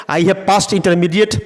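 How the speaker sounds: slow, deliberate phrasing; slow model sentence. Shown as a demonstration. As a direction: drill it slowly. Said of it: "देखिए, फिर गौर कीजिए".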